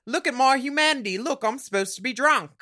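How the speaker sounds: high-pitched send-up of overacting; mock drunk character. Podcaster sends up Courtney's drunk acting scene, hammy and high. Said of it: "Courtney gives a character".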